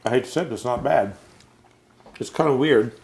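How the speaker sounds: talking through a mouthful; chewing while speaking; mouth full. Real, not acted. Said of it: "As I eat with my mouth full".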